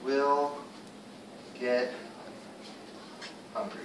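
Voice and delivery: deliberate teacher's word-by-word read. Shown as a demonstration. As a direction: finish the sentence one word at a time. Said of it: "teacher reads sentence word by word".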